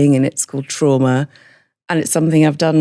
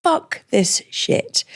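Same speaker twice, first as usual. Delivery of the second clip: defiant; 12 semitones higher, 3 dB quieter, much slower than usual. Retold or imitated. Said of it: "And then I'm like".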